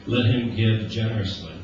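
solemn scripture read to the congregation. Acted. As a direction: read the passage with weight. Reads Romans twelve aloud.

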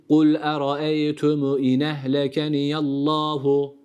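Kul eraeytüm in ehlekeniyallahu, slow, mistaken join; slowly, with the wrong nun; wrong reading. Shown as a demonstration. Tutor shows what not to recite. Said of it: "değil".

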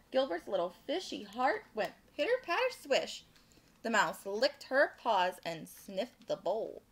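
animated storytime narration; picture-book read-aloud; children's story reading. A narrator's reading. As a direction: read it to little listeners with lilting emphasis.

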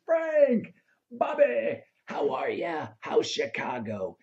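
excited greeting. Retold or imitated. Sinatra greets them warmly.

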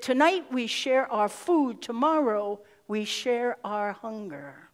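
slow, measured, solemn words; solemn quoted saying. Retold or imitated. Woman at the camp sharing food, slow and solemn. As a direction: say it slowly like a vow.

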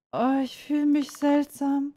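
lightly acted dizziness, pitch lifted; mock-dizzy complaint; woozy. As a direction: play a character starting to feel strange. Game character feels dizzy, strange.

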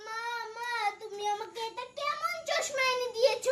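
put-on tearful child calling for mom; whiny crying. Daughter whimpering to her mother about the glasses.

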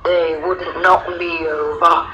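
slow lion's growl. A narrator's reading. Lion boasting to the little girl, slow growl. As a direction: draw it out as a big cat growling. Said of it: "The lion growled".

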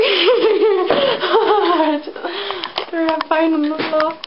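giggling through the word; breaking into laughter; laughing. Real, not acted. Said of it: "I'm sorry".

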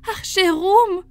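very high, desperate begging; terrified wife imploring; frightened plea. A narrator's reading. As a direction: beg for your life in a high voice. Wife begs not to be killed.

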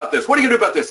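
high, loud, nagging demand; a mock-shrill colleague demanding action from the principal; whiny complaint. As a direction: whine it like a chronic complainer. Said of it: "she'll just do like she always does".

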